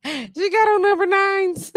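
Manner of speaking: high, loud, drawn-out exclamation; hyped-up teasing. Real, not acted. Teasing a friend about her short shorts, hyped. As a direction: stretch it out high, about to laugh.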